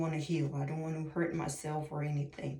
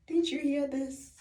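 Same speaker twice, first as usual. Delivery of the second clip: exasperated shout; 9 semitones higher, 7 dB louder than usual. Retold or imitated. Scolding her past self.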